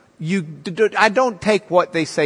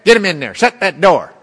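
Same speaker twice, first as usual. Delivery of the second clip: judge ordering bailiff; 5 dB louder, faster than usual. Retold or imitated.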